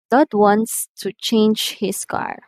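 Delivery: slow statement falling on "car"; slow model sentence, falling at "car"; falling intonation. Shown as a demonstration. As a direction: let "car" drop to a close. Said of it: "usually using falling intonation".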